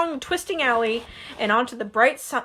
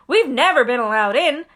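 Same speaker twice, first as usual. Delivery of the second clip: envious; 5 dB louder than usual. Acted. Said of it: "said Ron enviously".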